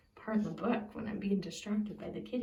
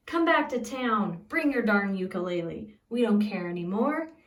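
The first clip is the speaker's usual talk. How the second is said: townsfolk calling; 5 dB louder than usual. Acted. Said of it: "They say".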